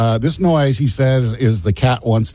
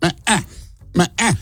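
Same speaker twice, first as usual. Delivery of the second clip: higher two-note meows, repeated; cat call imitation; 6 semitones higher, 4 dB quieter than usual. Shown as a demonstration. Host teasingly repeating the cat call to co-hosts, imitated meow. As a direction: bleat the cat call twice, pitched up. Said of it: "if you're meowing, basically".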